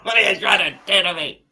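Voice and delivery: high and loud, laughing through it. Real, not acted. Laughing at a friend's teasing.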